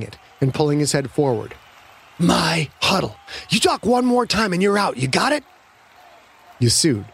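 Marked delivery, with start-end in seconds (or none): 2.2-5.4 forceful warning, pitch rising; angry threat. A narrator's reading. Quarterback to teammate grabbed by face mask, angry threat. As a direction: lay down the law to him.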